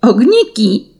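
put-on girl spots lights among the trees, calling out; excited cry. A narrator's reading. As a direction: point and shout in wonder. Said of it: "krzyknęła nagle Juzia".

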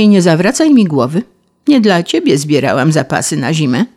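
a touch of a prim, scolding ladybird; stern ladybird. Acted. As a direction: question him sweetly, then send him off. Ladybird questions and dismisses grasshopper.

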